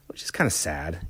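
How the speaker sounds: soft unvoiced whisper; a sad little whisper; whispered sadness. Real, not acted. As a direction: breathe it out quietly, saddened. Saddened aside about the band.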